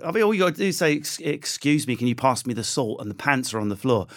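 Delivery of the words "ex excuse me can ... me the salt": put-on French accent. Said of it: "French guys over here".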